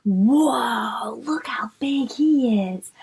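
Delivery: awed whisper. Real, not acted. Awed at big bug.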